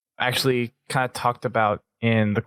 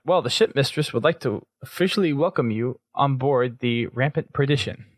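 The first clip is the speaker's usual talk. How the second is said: snotty, snarky; 3 semitones higher than usual. Retold or imitated. BB translating the ship mistress's welcome, mildly snotty. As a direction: put on a slightly snarky formal welcome. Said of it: "he says that in this little kind of snotty way".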